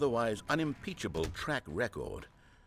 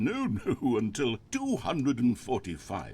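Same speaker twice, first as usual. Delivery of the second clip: droning monologue; 3 dB louder than usual. Pretend. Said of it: "pretend that I've just begun an interminable monologue".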